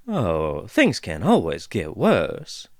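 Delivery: slow folksy dwarf drawl. Acted. Dwarf warning the pair, slow drawl. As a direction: drawl it out, unbothered. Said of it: "the voice replied with a drawl".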